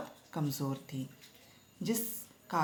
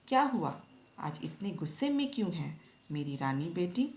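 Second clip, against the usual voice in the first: mild loving mother. Acted. Retelling mother soothing daughter, light affection. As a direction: lift the first words, then coax her gently. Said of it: "प्यार जताते हुए".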